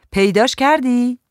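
a restrained shout, lifted in pitch; mild called-out question. A narrator's reading. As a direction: call it across to someone in another room. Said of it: "نیما داد زد".

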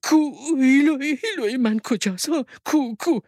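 high, agitated mother voice; excited questioning. A narrator's reading. Mother asks where Hilo is, excited and high. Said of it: "مادر با هیجان پرسید".

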